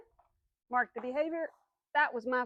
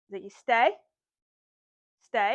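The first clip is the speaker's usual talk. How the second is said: firm command; 6 dB louder than usual. Real, not acted. Trainer commanding dog.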